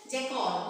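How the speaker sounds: "jackal" as JAY-kol; common mispronunciation. Shown as a demonstration. Teacher shows what students say, "jackal" as jay-kol. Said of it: "Most of them say jackal".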